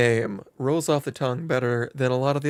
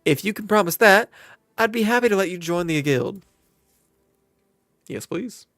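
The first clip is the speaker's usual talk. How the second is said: lightly drawled southern landlady; a hint of a folksy southern innkeeper welcoming a newcomer; friendly southern twang, lightly done; southern accent; 2 semitones higher, 7 dB louder than usual. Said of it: "she went southern".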